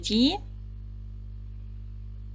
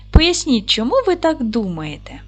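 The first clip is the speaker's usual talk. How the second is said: louder prompt; 3 semitones higher, 4 dB louder than usual. Real, not acted. Teacher prompts class loudly.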